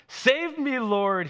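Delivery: high, loud cry for rescue; shouting for help. A narrator's reading. Peter sinking, to Jesus, shouting for help. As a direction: shout in mock panic as if sinking. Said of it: "he shouted".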